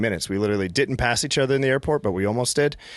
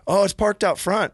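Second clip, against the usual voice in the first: breezy reply; 8 semitones higher than usual. Retold or imitated. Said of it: "And he's like".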